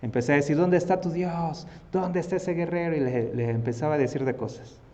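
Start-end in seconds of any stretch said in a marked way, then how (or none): 0.6-2.9 insulto desafiante. Acted. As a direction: call out a jeering challenge to the enemy. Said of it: "empezaba a insultar al pueblo". (burla desafiante de gigante)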